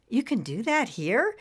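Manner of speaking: understated amazement; amazed. Acted. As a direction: ask with a touch of wonder. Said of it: "She asked in amazement".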